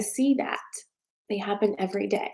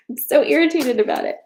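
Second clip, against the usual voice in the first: high, louder burst of irritation; irritated; 6 semitones higher, 6 dB louder than usual. Real, not acted. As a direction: blurt it out, exasperated.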